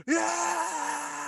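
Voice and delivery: high mock cheer; imitating a guy jumping out of his seat to cheer; cheering yell. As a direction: leap up and cheer. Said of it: "He's like".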